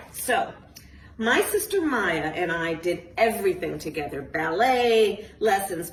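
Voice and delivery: put-on lively storybook reading to kids; reading to children. A narrator's reading. Author reading her book aloud to a group of children, lively storytelling. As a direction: read it like a bedtime picture book.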